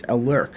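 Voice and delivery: "Alurk" said uh-LURK, z left out; "Alurk" with a plain l straight into LURK; correct pronunciation of Alurk. Shown as a demonstration. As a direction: repeat "Alurk" as uh-LURK, no buzz. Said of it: "It's pronounced as Alurk".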